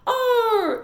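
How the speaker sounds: high loud howling "Oh"; dog howl. Acted. Winn-Dixie howling from outside the church. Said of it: "said Winn-Dixie back".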